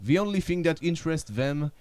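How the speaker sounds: dramatic movie trailer voice; monster truck ad. Acted. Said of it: "avec une voix de bande-annonce".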